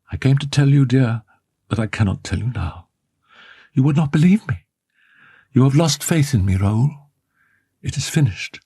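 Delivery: despairing. A narrator's reading. Woman telling her lover it is over, despairing. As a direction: let it sink into despair. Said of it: "She spoke in such a despairing voice".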